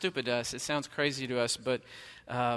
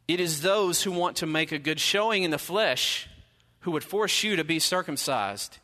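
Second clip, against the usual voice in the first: forceful reading; 4 semitones higher, 5 dB louder than usual. Acted. Reading Paul's blunt angry letter.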